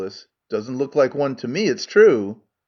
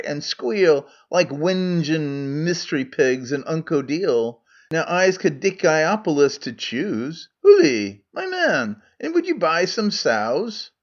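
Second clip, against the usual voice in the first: Scots Megarian; 3 semitones higher than usual. Acted. Megarian role in Scots dialect.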